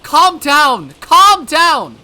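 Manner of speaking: high, loud commands; shouted orders. Acted. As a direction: bark them over her screams. Doctors yell back at Mion.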